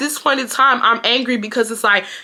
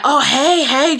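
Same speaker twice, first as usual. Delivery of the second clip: higher-pitched imitation of a friendly greeting; fake-friendly hello, pitched up; mock friendly; 4 semitones higher, slower than usual. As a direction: imitate boys putting on friendliness. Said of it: "trying to be friendly to him".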